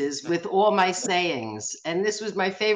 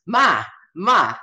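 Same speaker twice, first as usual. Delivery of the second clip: louder call for his mom's attention; 6 dB louder than usual. Retold or imitated. Son calls to his mother, who ignores him, louder call. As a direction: call across the hall to mom.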